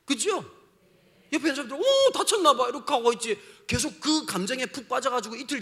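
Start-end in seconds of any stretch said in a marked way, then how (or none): 1.8-2.7 higher, louder passing surprise; mild bystander concern. Retold or imitated. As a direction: glance and remark lightly.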